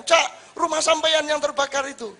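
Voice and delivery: high, loud urgent call. Retold or imitated. Villager calling to the fisherman about his burning house, loud and high. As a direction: shout the news across the village.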